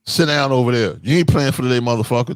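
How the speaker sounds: put-on how the kid heard it, mildly rough; harsh version. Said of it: "But he heard".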